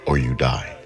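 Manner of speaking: lightly voiced proud ruler, threat at the end; queen threatening the strangers, mild menace; haughty goddess. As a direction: lay down a deadly challenge. Hikuleo sets the kava challenge.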